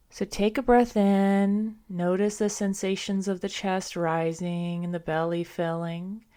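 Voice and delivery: measured, calm breath cues with pauses; guided breathing meditation. Acted. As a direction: guide them through each breath, unhurried. Leads a breath-counting meditation.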